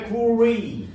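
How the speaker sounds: 구리 drawn out as if English; playful English-style reading of 구리; mock English accent. Shown as a demonstration. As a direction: stretch 구리 slowly with an English accent. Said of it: "영어야?".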